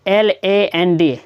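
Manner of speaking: letters spelled out slowly one by one; L A N D, each letter said slowly and clearly; slow spelling. Shown as a demonstration. Teacher spelling a word slowly for students. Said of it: "spelling out letters slowly".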